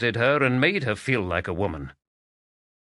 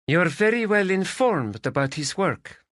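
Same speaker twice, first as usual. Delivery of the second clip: icy; 9 semitones higher than usual. Acted. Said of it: "Her voice had turned to ice".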